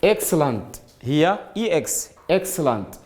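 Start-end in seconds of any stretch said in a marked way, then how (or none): 0.0-0.8 "excellent" opening with a voiceless "eks"; pronunciation demo. Shown as a demonstration. Teacher reading out excellent for students, pronunciation demo. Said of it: "Here you say X". 2.3-3.0 "excellent" with "eks", no voiced g; pronunciation demo. Shown as a demonstration. Teacher repeating excellent to show E X, pronunciation demo. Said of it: "You cannot say eg".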